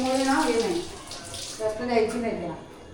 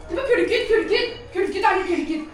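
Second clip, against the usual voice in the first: high, urgent repeated pointing-out; excited alert; 6 semitones higher than usual. Pretend. Owner showing the dog a cat at the window, excitedly. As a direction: get the dog worked up, high-pitched.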